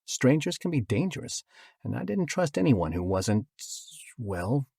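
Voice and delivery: ordinary delivery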